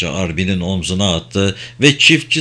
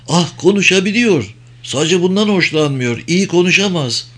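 higher, nervous country farmer voice; anxious farmer; 7 semitones higher than usual. Acted. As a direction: voice a worried old farmer pleading. Farmer Arbin's voice continues. (endişeli, tiz sesli çiftçi)

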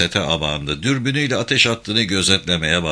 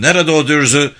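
furious demand; 6 semitones higher, 6 dB louder than usual. Acted. Captain furious at negligent men.

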